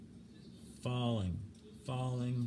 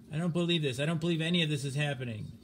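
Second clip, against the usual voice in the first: panicked disbelief; 3 semitones higher, faster than usual. Acted. Stimson in disbelief.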